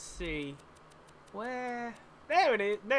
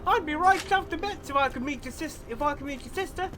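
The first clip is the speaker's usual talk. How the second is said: put-on Cockney-Australian accent. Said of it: "I'm doing a mixture of Cockney and Australian".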